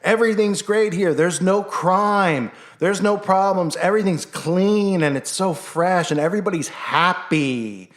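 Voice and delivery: high, bright mock-advert voice promising paradise; mock cheerful sales pitch. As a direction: parody the TV promo's sugary cheer. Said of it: "where they say".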